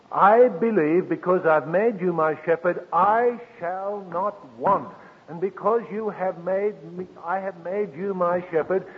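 lifted, slowed believer's vow; a hint of an earnest believer praying; voicing a prayer. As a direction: pray it as if making the vow now. Preacher voices believer's prayer.

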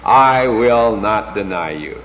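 slow, deliberate weight on "not deny you"; strong insistence. Retold or imitated. Preacher voicing Peter's promise to Jesus, strongly and slowly insistent. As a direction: set down "will not deny" firmly, word by word. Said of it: "Peter is strongly saying".

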